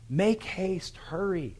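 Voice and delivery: high, loud urgent call; crying out. Acted. Jonathan cries out after the boy to hurry, a loud high call. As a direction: shout the warning after the boy, pitched high. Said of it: "Jonathan cried out after the boy".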